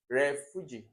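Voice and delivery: refuge with the first syllable punched loud; wrong stress on RE. Shown as a demonstration. Teacher repeating a nonsense option, loud front stress on refuge. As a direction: hit RE hard in refuge, then drop away. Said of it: "will be".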